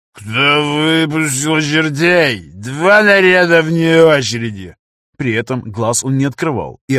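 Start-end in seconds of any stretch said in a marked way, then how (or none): 0.1-4.8 медленный, громкий бредовый ор; заорать как старшина в бреду; истеричный крик. A narrator's reading. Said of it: "истерично закричал". (истерично кричит)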